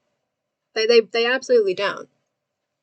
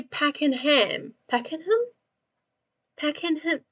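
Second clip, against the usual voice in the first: incredulous question; 4 semitones higher, 4 dB quieter than usual. Real, not acted. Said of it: "How are you saying it?".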